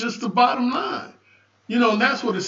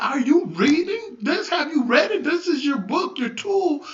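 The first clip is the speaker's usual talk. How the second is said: higher-pitched, insistent questioning; challenging; 5 semitones higher than usual. Retold or imitated. Minister asking folk if they read their book, challenging. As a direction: press them like a minister quizzing his flock. Retells challenging congregants about reading.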